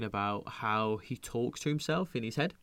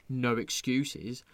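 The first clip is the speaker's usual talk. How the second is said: stretched out, mocking No excuses; slow mocking echo; much slower than usual. Echoing a friend's vow, slow and mocking. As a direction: drawl No excuses slowly, mocking it. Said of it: "how you're gonna do it".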